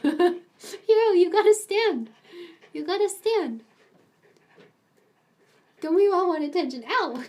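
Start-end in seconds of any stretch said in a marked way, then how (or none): 0.0-3.6 louder, higher, with a laugh; laughing encouragement. Real, not acted. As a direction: urge the dog on. Coaching the dog, laughing.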